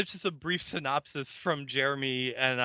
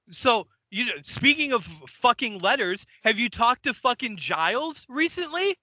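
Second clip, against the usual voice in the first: higher-pitched, needling anger; pissed off; 6 semitones higher than usual. Acted. Furious Bill confronting the other watcher about Giles, angry. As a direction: push the question at him, fed up. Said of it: "Bill is fucking pissed".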